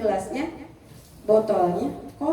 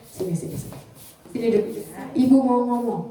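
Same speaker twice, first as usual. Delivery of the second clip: gentle invitation; faster than usual. Shown as a demonstration. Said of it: "ambil tangannya atau pegang pundaknya".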